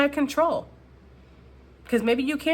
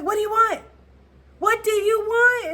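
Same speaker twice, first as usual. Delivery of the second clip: Notebook movie hero; 12 semitones higher, 6 dB louder than usual. Retold or imitated. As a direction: overact the desperate lover demanding an answer. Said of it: "He's like".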